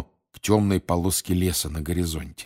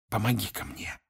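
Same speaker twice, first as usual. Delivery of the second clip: hushed, much softer aside; in an undertone; 3 semitones higher, 7 dB quieter than usual. A narrator's reading. Mr Weasley asks Harry for help, in an undertone. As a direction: drop the volume to ask privately. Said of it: "попросил он вполголоса".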